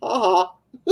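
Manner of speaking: a high, mocking ha ha; mocking laugh. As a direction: laugh at the caller, high and teasing. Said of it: "I'm like".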